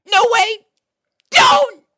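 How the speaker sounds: very high, loud warning; alarmed cry. Acted. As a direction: shout to stop her in panic. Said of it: "Scootaloo began".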